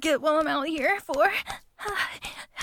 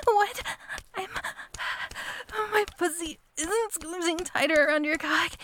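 normal talking voice

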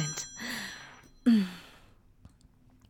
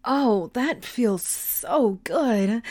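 slow sensual; much slower than usual. Acted. Intimate moment.

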